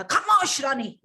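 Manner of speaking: loud commanding rebuke; angry king. Acted. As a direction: silence her with royal anger. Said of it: "राजा को आया गुस्सा". (गुस्से में राजा की फटकार)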